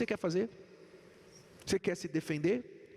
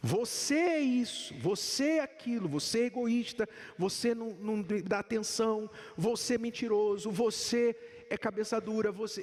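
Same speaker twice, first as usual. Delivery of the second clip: accusing partner; 3 semitones higher than usual. Acted. Spouse blaming the partner during a fight, in a mildly heated accusing voice. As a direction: point the finger and hammer every "você é".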